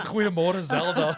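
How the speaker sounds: lightly voiced statesman greeting in Afrikaans; Mandela. Host imitating the president greeting Zelda, Mandela impression. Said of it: "Like Mandela, when he gooit Afrikaans".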